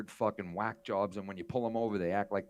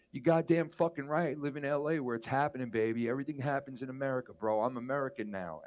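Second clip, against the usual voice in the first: cocky mock boast; 3 semitones higher than usual. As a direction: brag it like a smug expat. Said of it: "Sean Avery goes".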